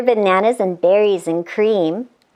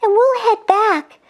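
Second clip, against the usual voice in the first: put-on lightly raised girlish voice; angel voice; 5 semitones higher than usual. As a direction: explain it with concern. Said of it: "continued Angel Scarlet".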